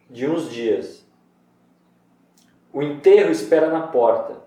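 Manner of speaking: measured poetry reading; poem reading. Shown as a demonstration. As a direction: recite it like a poem for the class. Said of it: "mas ó".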